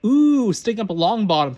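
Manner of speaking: sing-song taunt to rile her; a mean girl jeering at a classmate. A narrator's reading. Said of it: "Pansy jeered".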